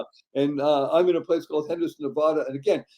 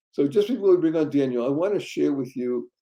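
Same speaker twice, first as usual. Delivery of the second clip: ordinary talk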